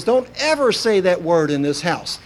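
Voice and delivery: lightly voiced stern mom; a hint of an alarmed mother; mock scolding mother. Mother scolding her weevil child.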